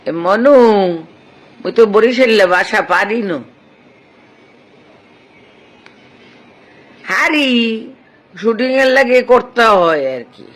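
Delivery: put-on light Barisal village accent, half joking; Barisal dialect. Actor answering a fan's request on live, mild Barisal accent. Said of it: "চমৎকার বরিশালের ভাষা".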